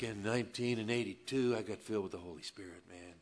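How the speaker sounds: a hint of a self-satisfied show-off; mock boastful believer. Pastor mocking believers proud of their gifts, lightly smug. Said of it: "somehow I'm making light".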